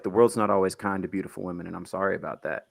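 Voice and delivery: low, soft, earnest condolence; hushed sincerity, slightly quick; retold consolation. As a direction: console her quietly, dropping low. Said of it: "And I was like".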